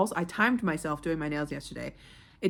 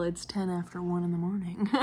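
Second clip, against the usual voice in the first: ordinary delivery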